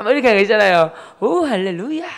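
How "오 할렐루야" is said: loud, high, swooping mock praise; teasing hallelujah. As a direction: exaggerate the piety to needle a brother. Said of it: "이렇게 놀리는".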